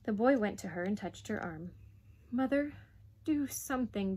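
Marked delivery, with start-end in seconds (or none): 2.3-4.2 put-on higher boyish plea; pleading. Boy touches mother's arm, pleading. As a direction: appeal to mother urgently. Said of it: "the boy pleaded".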